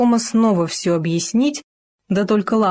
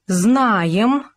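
pompous; 3 semitones higher than usual. Acted. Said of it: "важно сказал Хома".

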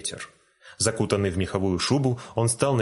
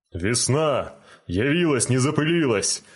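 higher-pitched, rising excited exclamation; exclaiming; 4 semitones higher, 3 dB louder than usual. A narrator's reading. Giant greeting long-awaited spring from his bed, exclaiming. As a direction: exclaim it, lifting pitch as you go. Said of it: "воскликнул он".

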